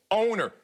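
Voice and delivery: owner landed firmly before the name; stress on owner. Real, not acted. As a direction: lean hard on the word owner. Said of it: "let me emphasize this word".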